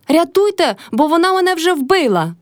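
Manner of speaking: high, frantic mock-distress yell. A narrator's reading. Old woman yelling to the elder and clerk. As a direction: yell that she's already killed. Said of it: "репетувала Кайдашиха".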